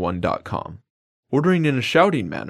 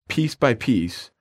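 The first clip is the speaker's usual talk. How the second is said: slow, over enunciating; much slower than usual. Shown as a demonstration. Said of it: "break up that phrase".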